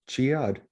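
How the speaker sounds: "Chiad" with the weight on "Chi"; stress on the first syllable. Shown as a demonstration. Co-host correcting their own pronunciation, "Chiad" stressed on "Chi". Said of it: "Emphasis on the chi".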